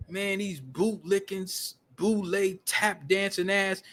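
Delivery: slow, drawn-out imitation of a tirade; mock ranting insults. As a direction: retell her insults slowly, lowering the volume. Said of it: "just going off".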